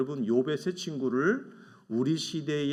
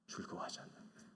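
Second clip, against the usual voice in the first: whispered aside; 20 dB quieter, faster than usual. Acted. Hushed aside in sermon.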